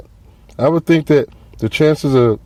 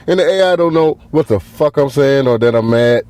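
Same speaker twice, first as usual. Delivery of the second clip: ordinary talk, nothing marked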